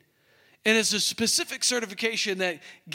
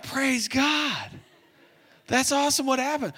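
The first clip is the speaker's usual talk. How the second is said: excited praise; 5 semitones higher than usual. Retold or imitated. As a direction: burst out in delight. Hearing the good news.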